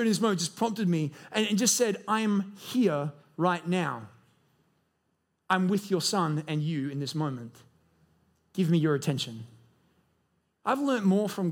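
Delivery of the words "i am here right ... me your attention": gentle divine voice. Pretend. Holy Spirit voiced, quiet and slow.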